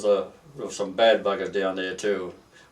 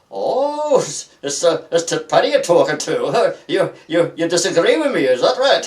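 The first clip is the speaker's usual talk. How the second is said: higher, louder mock challenge from a hard copper; retelling a copper's cocky dare, higher and louder; mock tough copper; 7 semitones higher, 7 dB louder than usual. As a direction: ham up the copper daring a drunk to argue back. Copper challenging a cheeky drunk.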